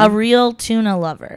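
slow Australian accent demo. Shown as a demonstration. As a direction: teach the Australian accent, drawing out the words. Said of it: "you say this phrase".

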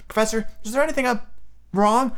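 high, hushed student voice; Parvati Patil. A narrator's reading. Student asking if her teacher is troubled, hushed high voice. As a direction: ask carefully in a high little voice. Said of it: "said Parvati Patil in a hushed voice".

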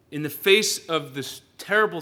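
ordinary talk

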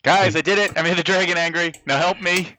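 crow, then call for help; mock triumphant plea. Player to party after angering dragon, playfully triumphant.

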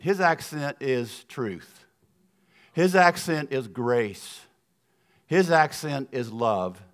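put-on "His accent is" said slowly, each key word landing; slow rhetorical emphasis. Preacher to congregation about Jesus, slow weighty refrain. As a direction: lay down each line slowly like a sermon refrain.

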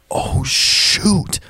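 hammed-up mock disappointment, pitched high; oversold dismay. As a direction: really sell the fake letdown. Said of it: "Just, like, really sell it".

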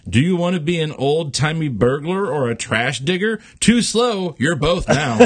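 God hurrying the raccoon to choose; impatient God. Acted. God rushing the raccoon, mock impatient.

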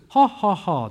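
three measured, spoken ha-ha-ha syllables; mock a laugh, syllable by syllable; demonstrated American laugh. Shown as a demonstration. Preacher showing American way of laughing, demonstration laugh. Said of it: "we say laughing is like this".

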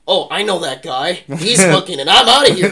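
loud, high mock soldier bailing out; hammed-up cry of a man taking off; panicked deserter. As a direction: build to a high shout, bolting from the line. Acting out a fleeing soldier.

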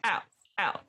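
put-on librarian scolding in an American accent. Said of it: "Oh, sorry, American accent".

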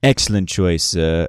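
a hint of a smooth salesman; lightly voiced bartender. Bartender praising the vintage, lightly smooth. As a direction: flatter the customer's taste.

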